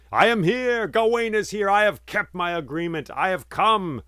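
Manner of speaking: loud, high cry into the empty valley; high ringing shout calling for anyone; desperate shout. Acted. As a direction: call out with all your might, desperate. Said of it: "he shouted out".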